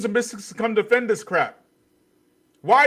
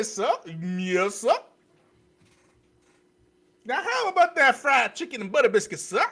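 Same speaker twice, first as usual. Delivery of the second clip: a hint of a groveling servant; mocking servile voice. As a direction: sneer through a mock grovelling apology. Mocking black men apologizing.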